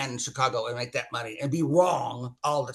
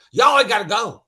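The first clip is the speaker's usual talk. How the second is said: higher, louder mock-urgent redneck; acted redneck; 6 semitones higher, 9 dB louder than usual. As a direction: blurt it out like an alarmed redneck. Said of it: "the redneck and me went".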